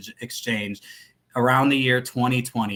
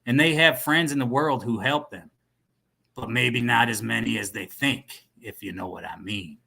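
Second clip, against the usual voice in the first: quintessential American. Acted. Dealer hinting to his contact, American cowboy accent. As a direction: trail down conspiratorially in American accent. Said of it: "this guy sounds like a quintessential American".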